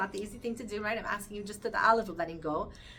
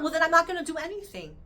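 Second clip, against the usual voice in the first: higher and louder, a huffy shrug of a line; mock sulky refusal; 7 semitones higher, 6 dB louder than usual. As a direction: play the petulant one who gives up.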